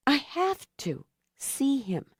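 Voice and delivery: breathless whisper, stress on have; whispered plea. A narrator's reading. Rachel whispering her longing to herself. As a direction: hush it, barely voiced. Repeated line, whispered then said.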